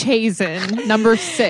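loud, mock-grand reveal; dramatic host announcement. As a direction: announce it like the show finale. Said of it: "and she said".

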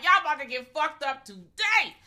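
egging the villain on, loud and high; hyped cheering. Retold or imitated. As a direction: cheer him on, pumped.

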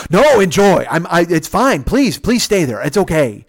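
hurried placating, starting high and loud; mock a flustered man insisting all is fine; imitated nervous insistence. Old man placates the guest he provoked, nervously. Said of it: "he's nervous because now".

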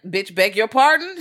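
slow, high, loud rising question; acted affronted disbelief. Butler answering the guest back, acted affronted disbelief. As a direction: stretch it out into an incredulous question.

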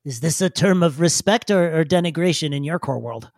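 hesitant, puzzled little digger; a hint of an awkward, formal creature; lightly voiced digger. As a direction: puzzle over the unfamiliar word, formally. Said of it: "He looks up and he goes".

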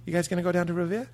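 quick Boston-accented question; fast coaching demo, Boston accent. Shown as a demonstration. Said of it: "let's practice our Boston accent".

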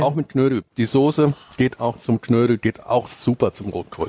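talking while chewing; words round a bite of food; mouth full. Real, not acted. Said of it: "ich kann nicht immer mit vollem Mund sprechen".

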